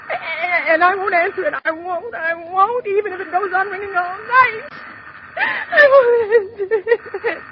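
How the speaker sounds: half-sobbing, stubborn; cling to the vow through tears; frightened woman weeping defiantly; tearful refusal. Acted.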